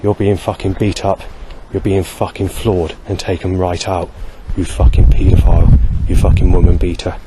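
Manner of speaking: retold abuse, building to a loud finish; saying very loudly. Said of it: "starts saying very loudly".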